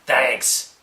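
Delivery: curt, sarcastic thanks. Shown as a demonstration. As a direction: say it so it could be taken as sarcasm. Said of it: "whether you're being sarcastic or not".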